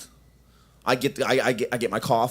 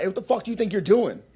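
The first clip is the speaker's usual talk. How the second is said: mock confrontation, pitched up; big boy voice; 7 semitones higher, faster than usual. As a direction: put on a hammed-up big boy challenge. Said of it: "put on my big boy voice".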